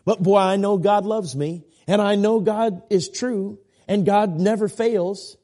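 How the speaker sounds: a believer who leans on 'know'; right way, assured. Shown as a demonstration. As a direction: let certainty win over the doubt. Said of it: "switch it up".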